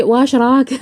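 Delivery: واش راك said lightly in an Algerian accent. Shown as a demonstration. Algerian accent, showing how she greets now. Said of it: "ماشي".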